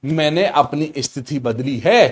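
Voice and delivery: drawn-out teacher's repeat of "मैंने अपनी स्थिति बदली है"; slow emphatic repeat. Shown as a demonstration. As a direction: spell it out slowly for the class. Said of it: "क्या बोला?". (धीरे-धीरे ज़ोर देकर दोहराना)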